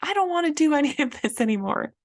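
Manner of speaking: hammed-up inner child throwing a fit; child's tantrum. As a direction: stomp your feet and whine like a little kid. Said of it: "she's having a tantrum".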